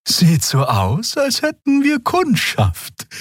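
slow, high, wry voice; note it dryly; wry remark. Acted. Xia remarking on visitors to Kero, slow and high. Xia seeing ship lights.

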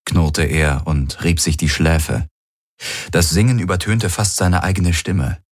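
plain reading voice

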